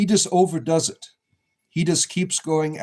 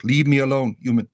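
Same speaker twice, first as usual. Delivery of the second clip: mildly exasperated, slightly louder imagined pet's complaint; frustrated bunny; 3 dB louder than usual. Acted. Owner speaks for his bunny tired of the camera, mildly frustrated. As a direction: lightly voice a fed-up rabbit. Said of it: "he's being frustrated right now".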